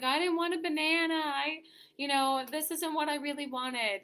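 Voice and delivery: mock-whine like a toddler who didn't get what they wanted; whiny crying child. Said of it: "they're, like, crying".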